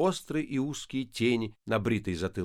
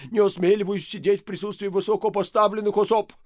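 obsequious plea; 8 semitones higher, 5 dB louder than usual. A narrator's reading. Fawning priest pleading.

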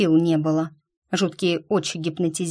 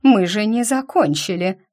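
louder, a touch higher, offended; indignant protest; 4 semitones higher, 5 dB louder than usual. Acted. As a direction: protest hotly that it isn't over. Possessed mother protests loudly.

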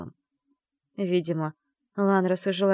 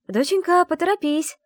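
higher, louder call from another room; mother calling out; 12 semitones higher, 6 dB louder than usual. A narrator's reading. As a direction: mum calling her daughter to hurry. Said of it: "крикнула мама из комнаты". (мама зовёт дочь из комнаты, громко)

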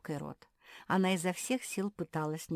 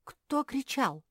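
surprised; 10 semitones higher, 7 dB louder, slower than usual. Acted. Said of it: "удивилась Гортензия".

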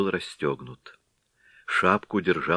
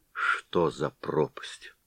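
slow, stunned whisper; 3 semitones lower, 6 dB quieter, much slower than usual. Acted. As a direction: breathe it out in disbelief. Bewildered Head mutters in shock. (поражённый медленный шёпот)

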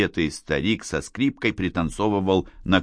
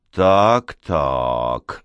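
ominous; 5 semitones lower than usual. A narrator's reading. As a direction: say it like a looming threat. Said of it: "зловеще продолжила Надежда". (зловеще, с угрозой)

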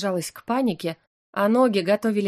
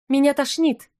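high-pitched and louder, a squeak of nausea; squeaky plea; 6 semitones higher, 4 dB louder than usual. Acted. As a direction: squeak it out, sick and panicky. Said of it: "пропищала я". (пропищать жалобно, высоким голосом)

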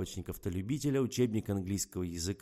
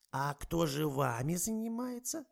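worried; 9 semitones higher, slower than usual. A narrator's reading. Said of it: "забеспокоилась старуха".

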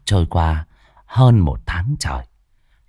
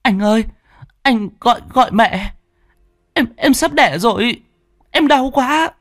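much higher desperate scream for help; screaming in pain; 14 semitones higher than usual. Acted. Wife in labour screaming for her husband, desperate. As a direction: scream for him, the pain is unbearable. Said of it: "chị gào lên".

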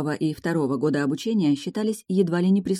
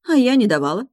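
high, louder cheeky retort; sassy retort; 6 semitones higher, 6 dB louder than usual. A narrator's reading. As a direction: toss the comeback back lightly. Retort from the dragoness. (дерзкий ответ)

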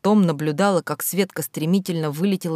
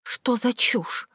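high, loud hurt accusation; girl furiously arguing with her ex-friend; quarrel; 7 semitones higher, 4 dB louder than usual. Acted. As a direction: throw it at the friend who turned on her. Schoolgirls quarrel in the corridor.

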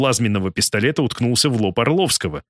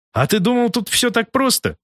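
relishing every word; 12 semitones higher than usual. A narrator's reading. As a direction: savour each word like a villain. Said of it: "словно удовлетворяясь каждым словом".

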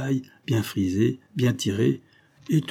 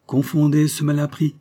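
higher, louder curt order; brusque; 6 semitones higher, 5 dB louder than usual. Acted. Danton brusquely urges her to shame the boor. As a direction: snap it out as a command. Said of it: "dit Danton brusquement".

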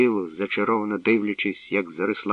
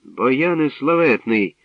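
glad greeting; 5 semitones higher, 6 dB louder, slower than usual. A narrator's reading. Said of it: "радо привітав він його".

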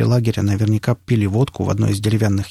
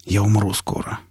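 halting, subdued confession with long pauses; struggling to say it; forced out with difficulty; 4 dB quieter, slower than usual. A narrator's reading. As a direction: squeeze the words out haltingly. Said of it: "с трудом выдавил я".

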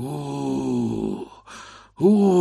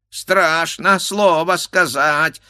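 higher, slow bleat; bleating ram; 8 semitones higher, 6 dB louder, slower than usual. A narrator's reading. The ram's head mimicking, bleating. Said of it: "заблеяла баранья голова".

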